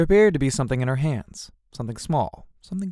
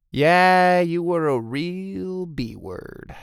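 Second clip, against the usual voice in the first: hurt accusation; 6 semitones higher, much slower than usual. A narrator's reading. Doug accusing Tara of betrayal, hurt. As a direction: wail the accusation, stretching it out.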